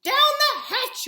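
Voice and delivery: loud, slow crew shout. A narrator's reading. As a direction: bellow it out slowly together. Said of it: "we all shouted".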